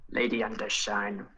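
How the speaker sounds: put-on sly, whispered old schemer; Palpatine-like whisper. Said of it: "he sounds a little like Emperor Palpatine".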